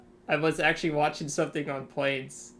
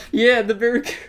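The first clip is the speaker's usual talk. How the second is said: excited recognition; 7 semitones higher, 11 dB louder, faster than usual. Real, not acted. Recognizing the ugly plane.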